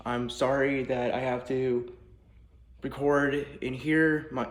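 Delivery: echoey voice in a bare room; big hall echo on the voice. Real, not acted. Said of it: "I apologize for my echoing voice".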